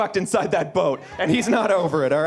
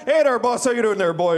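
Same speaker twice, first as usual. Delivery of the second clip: failed British attempt in Nova Scotian; hammed-up Nova Scotian drunk-child speech; mock Nova Scotian accent; faster than usual. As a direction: blunder cheerfully into Nova Scotian. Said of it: "The Nova Scotian accent".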